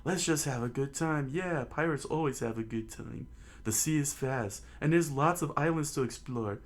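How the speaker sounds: high, lively hearty crew voice; cheerful pirates. Acted. Crew tells Luffy to relax, high hearty cheer. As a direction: cheer him up, boisterous.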